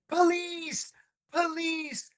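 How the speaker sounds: high panicked scream for the police. Retold or imitated. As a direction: yell it in terror. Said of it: "then he starts screaming".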